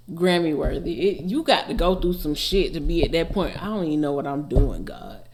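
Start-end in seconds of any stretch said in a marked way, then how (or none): 3.6-5.3 rattled off quickly as a quote from the song. Retold or imitated. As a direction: toss the line off fast and casually. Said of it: "It's so much in that sentence".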